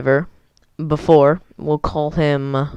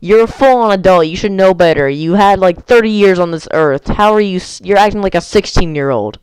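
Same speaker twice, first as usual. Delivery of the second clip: retold telling-off; 3 semitones higher, 3 dB louder than usual. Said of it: "Unnamed fellow was like".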